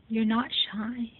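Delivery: slow teasing You're not shy; slow playful scolding; slow tease. Real, not acted. Teasing the pet.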